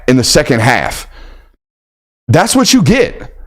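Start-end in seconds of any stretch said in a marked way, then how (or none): 2.3-3.3 higher, slowed taunt, stretched out; sing-song told-you-so. Acted. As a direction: tease it like a playground jeer. Taunting catchphrase.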